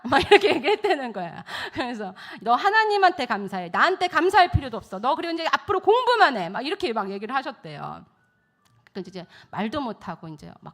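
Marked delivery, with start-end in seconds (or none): 2.4-6.5 imitating a tutor, higher and louder; emphatic instruction. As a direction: lay down each order firmly. Tutor firmly instructing the boy.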